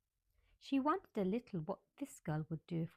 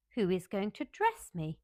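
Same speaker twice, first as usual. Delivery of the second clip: demanding; 6 dB louder than usual. Acted. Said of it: "demanded Mary".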